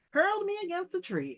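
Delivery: high, loud boast of the attack; dramatic telling. Acted. The general recalling the buffalo charge, high and loud. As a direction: tell it like a war story. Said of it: "said the general".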